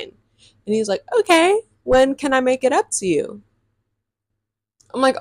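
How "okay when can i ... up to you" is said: higher-pitched mocking quote of him; imitated boyfriend. Girl mimics the boy asking to make it up, higher mocking voice. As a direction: put him on in a raised voice.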